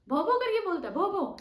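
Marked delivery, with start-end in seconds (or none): 0.1-0.3 loud playful woof woof, higher; dog bark imitation. Shown as a demonstration. Teacher barks like a dog for the class. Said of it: "कैसे बोलता है dog". 0.9-1.4 dog bark imitation. Shown as a demonstration. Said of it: "ऐसे बोलता है".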